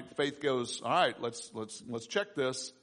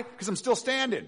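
higher, ringing declaration; emphatic answer; 9 semitones higher, 3 dB louder than usual. Real, not acted. To the congregation on why joy, an emphatic answer. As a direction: proclaim you're still standing.

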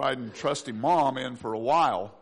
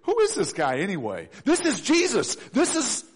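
excited crowd; 4 semitones higher than usual. Acted. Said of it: "the people are saying".

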